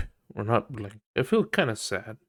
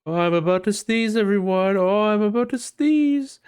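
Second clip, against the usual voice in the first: high, louder whiny sneeze announcement; mocking attention seeker; 10 semitones higher, 5 dB louder than usual. Mocking people who announce sneezes, high and whiny. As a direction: squeal it for attention. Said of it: "people are like".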